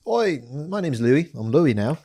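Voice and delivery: put-on British accent. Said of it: "same thing".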